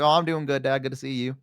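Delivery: easy Southern reply; Southern accent. Shown as a demonstration. Answering dad, in a Southern accent. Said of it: "talking in a Southern accent".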